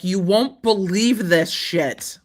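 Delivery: slow, hammed-up outrage at the lawyer; mock angry customer. The plaintiff ranting to his lawyer, slow mock fury. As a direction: play the furious buyer slowly and mockingly. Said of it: "going to a lawyer and being like".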